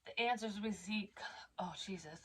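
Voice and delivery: real unvoiced whisper, fighting tears; whispered through tears. Real, not acted. Reader trying to read the card while crying, whispering. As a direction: barely breathe the words. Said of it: "that's not why I'm crying".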